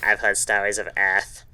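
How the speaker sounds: voz de puberdade desajeitada, imitando o Jaden; awkward puberty voice. Retold or imitated. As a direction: repeat the line in an awkward teen voice. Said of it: "in his extremely awkward puberty voice".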